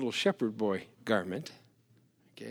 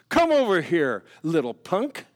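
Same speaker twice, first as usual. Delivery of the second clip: yell; 4 dB louder than usual. Retold or imitated. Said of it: "Goliath yelled".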